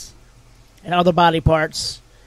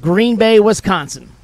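louder announcement of the answer; big reveal; 2 semitones higher, 5 dB louder than usual. Real, not acted. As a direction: reveal it like a game-show host. Host reveals the quiz answer.

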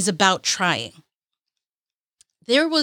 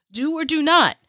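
"Do or do not." said higher and excited, her own voice; hyped repeat; 5 semitones higher than usual. Retold or imitated. Vlogger quoting Yoda's line in her own voice, excited. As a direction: proclaim "Do or do not." like a fan. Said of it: "It was like".

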